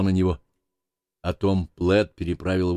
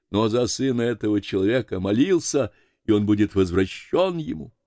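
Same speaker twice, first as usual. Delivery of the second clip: raised voice of a devout man testifying; slightly higher, earnest storybook character; кроткий верующий Пен, убеждённо; 4 semitones higher than usual. Acted. (набожный человек, убеждённая речь)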